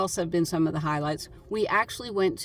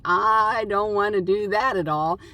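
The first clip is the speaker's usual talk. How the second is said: retold reluctance; 5 dB louder than usual. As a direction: act out a playful refusal. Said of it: "And I'm like".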